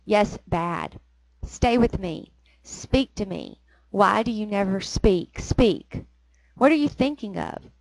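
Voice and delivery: measured dramatic reading of dialogue; poem reading. Acted. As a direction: read the couple's exchange like a poem. Reads the poem's dialogue aloud.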